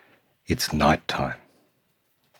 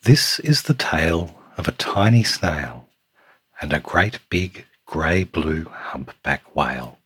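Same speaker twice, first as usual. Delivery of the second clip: lilting storytime read with punched key words; picture book narration. A narrator's reading. Reading a picture book to Samuel, lilting storytime voice. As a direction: read it to a small child, savouring the rhyme.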